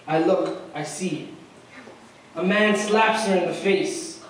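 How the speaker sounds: measured spoken-word delivery with dramatic pauses; poem recitation. Acted. Student reciting his poem about a girl in a hijab, spoken-word style. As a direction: recite in short, deliberate phrases.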